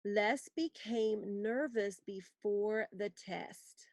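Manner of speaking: "Les became nervous before the test." read slowly, word by word; slow dictation. Shown as a demonstration. Teacher dictating a sentence for students to write. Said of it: "examples I want you to write".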